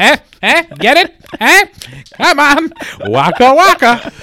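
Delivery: high, loud joke-pushing; excited. Real, not acted. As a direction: nudge them to laugh. Pushing his own joke.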